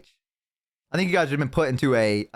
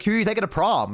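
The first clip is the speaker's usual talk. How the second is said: excited mom; 8 semitones higher than usual. Retold or imitated. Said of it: "she's like".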